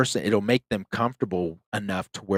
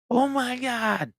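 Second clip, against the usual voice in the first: breathless high-pitched "oh my God", drawn out slow; a man jolted out of his chair by a growl, retelling his gasp; startled gasp; slower than usual. Retold or imitated. Edgar startled by growl in dark.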